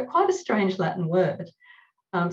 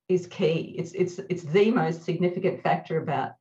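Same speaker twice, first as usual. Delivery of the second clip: ordinary talk, nothing marked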